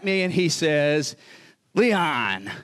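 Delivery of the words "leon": slow, drawn-out name call; a hint of a grand announcement; excitable missionary. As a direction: lightly imitate a missionary hailing his evangelist. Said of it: "He talked like that".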